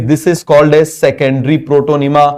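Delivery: slow, word-by-word note dictation; slow classroom dictation. Shown as a demonstration. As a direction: spell it out slowly so students can write. Dictating a definition.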